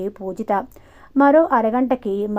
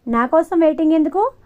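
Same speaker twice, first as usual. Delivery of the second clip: pointed and higher, a little louder; serious question; 7 semitones higher, 4 dB louder than usual. A narrator's reading. Pujitha asks Sudhir why he waited, seriously. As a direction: ask it straight, no smile. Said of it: "సీరియస్గా అడిగింది పూజిత".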